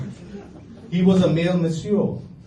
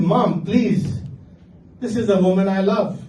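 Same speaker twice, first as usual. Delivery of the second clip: higher, earnest plea; pleading son; 4 semitones higher than usual. Retold or imitated. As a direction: beg her to accept.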